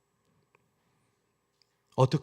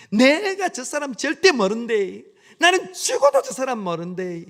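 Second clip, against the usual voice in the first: Galilean dialect; 10 semitones higher, 9 dB louder than usual. Acted. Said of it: "베드로가 사투리를 쓰면서".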